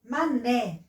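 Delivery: "Mané" with NÉ stretched; "ma-NÉ", deliberate dictation; strong syllable shown. Shown as a demonstration. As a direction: sound out "Mané", leaning on NÉ. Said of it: "é a mais forte".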